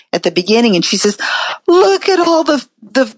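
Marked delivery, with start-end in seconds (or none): 1.7-3.0 gushing stage welcome. Retold or imitated. Manager's stage welcome to audience, retold.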